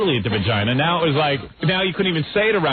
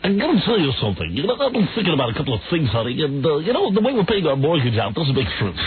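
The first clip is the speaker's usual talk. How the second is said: mock radio DJ tone; a radio voice used on his wife; DJ voice at home; 2 semitones higher than usual. DJ husband discussing the mortgage with his wife, mock radio voice. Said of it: "DJs who talk like that".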